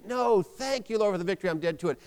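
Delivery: emphatic refusal and thanks. Shown as a demonstration. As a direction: say it decisively, leading with a strong NO. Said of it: "So say it emphatically".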